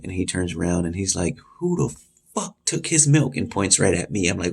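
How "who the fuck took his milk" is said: high-pitched acted accusation; imitating an angry confrontation; retold angry demand. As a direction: demand it as an outraged inmate, voice pitched up. Angry inmate accusing the room, retold.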